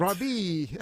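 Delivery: mock French name; put-on French accent. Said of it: "but in a French accent".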